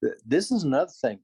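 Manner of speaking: raspy whisper. Real, not acted. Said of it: "This is all the voice I've got".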